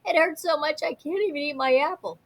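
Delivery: put-on high, loud whiny kid yell about a sore tooth; yelling child. A narrator's reading. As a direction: wail it like a child in pain to mommy. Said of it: "and yelled".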